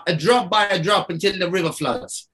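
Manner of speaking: a light hint of a Jamaican accent; imitating grandma with a faint Jamaican lilt. His grandma's saying, in a lightly voiced Jamaican accent. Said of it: "I don't know why I make her Jamaican".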